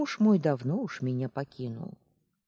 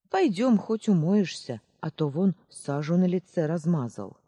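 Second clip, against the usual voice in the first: put-on kindly old woman; 3 semitones higher, 6 dB louder than usual. Aunt Marsha calls the girl.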